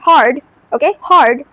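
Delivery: car and hard with a strong American R; American accent. Shown as a demonstration. Teacher showing American R words to learners, American accent. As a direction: say them with American R. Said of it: "To sound American".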